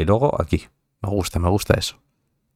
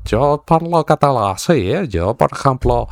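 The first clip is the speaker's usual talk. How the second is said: mock closed Catalan accent, pitch lifted at first; exaggerated Catalan accent impression; 5 semitones higher than usual. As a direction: put on a thick Catalan accent. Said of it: "A mí cuando me hablan así".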